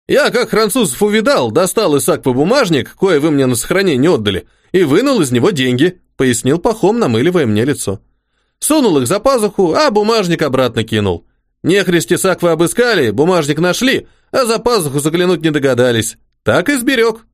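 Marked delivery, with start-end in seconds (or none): 0.1-6.0 simple soldier voice. Acted. The orderly Pakhom speaking. 8.6-17.3 simple soldier voice. Acted. The orderly Pakhom speaking.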